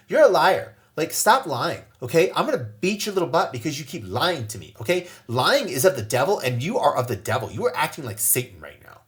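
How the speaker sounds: put-on loud, harsh scolding of a lying child; mock angry scolding. Shown as a demonstration. Father demonstrating how not to scold daughter, loud angry scolding. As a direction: bark it like a fed-up parent. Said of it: "Instead of saying".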